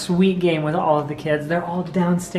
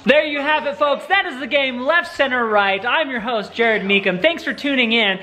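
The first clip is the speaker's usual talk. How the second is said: game show host. Pretend. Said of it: "that's just my host".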